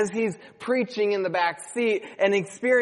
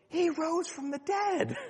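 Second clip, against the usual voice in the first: put-on child calling out; 12 semitones higher, 6 dB quieter than usual. Child calling while walking away.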